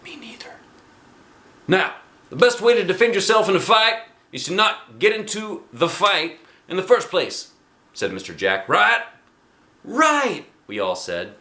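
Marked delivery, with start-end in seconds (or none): 0.0-0.5 unvoiced whisper, higher pitch; whispering to a friend in class. Reply to whispered warning. 1.7-7.5 gym teacher voice. Acted. Gym teacher lecturing class. 8.7-9.0 high, louder prompt; coach prompting. Acted. Teacher prompting the class. 9.8-10.5 put-on very high kids' answer; class chorus.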